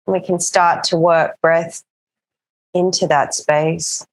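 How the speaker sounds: calm, even yoga-teacher voice with long pauses; settled meditation-class delivery; guided breathing practice. Acted. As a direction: guide them gently into the breath, unhurried.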